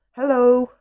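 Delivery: high, loud drawn-out hello; animated picture-book creature voice; snail's greeting. A narrator's reading. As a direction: sing it out as a little snail. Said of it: "a snail saying".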